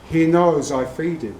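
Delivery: badly faked French accent; matter-of-fact line in a hammy French accent; terrible French accent. French trainer answers William Goldman about his lion, terrible French accent. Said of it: "It's a terrible French accent".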